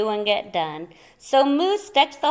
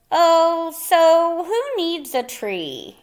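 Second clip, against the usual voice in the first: put-on brave-faced kids; 6 semitones higher, 3 dB louder, slower than usual. Kids putting on brave face.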